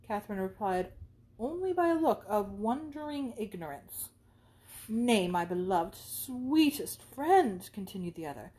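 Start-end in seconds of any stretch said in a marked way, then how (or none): 4.9-7.7 very slow, drawn-out endearment; fawning friend. Acted. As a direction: linger on every sweet word. Isabella fawns.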